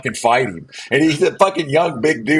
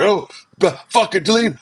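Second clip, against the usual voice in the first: higher-pitched mock complaint; imitating angry friend; 8 semitones higher than usual. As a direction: squeak it out like a whiny guy. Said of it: "He's like".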